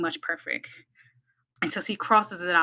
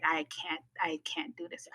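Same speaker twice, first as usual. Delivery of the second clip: hushed despair; 6 dB quieter than usual. Retold or imitated. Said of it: "and I'm just like".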